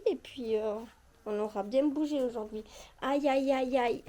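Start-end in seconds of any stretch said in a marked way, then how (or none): 3.0-4.0 pained ouch. Real, not acted. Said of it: "Ça, ça fait mal".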